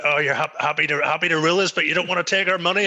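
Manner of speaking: mock indignant Republican. Man summoning his inner Republican at the till, mock indignant. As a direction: act out a worked-up political protest. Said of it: "summoned his inner Republican".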